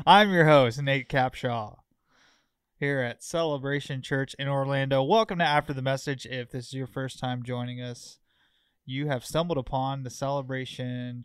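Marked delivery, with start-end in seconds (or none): 0.1-6.2 second take, bigger host voice; louder redo. Shown as a demonstration. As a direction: restart the intro, louder and brighter. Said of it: "We never start that way".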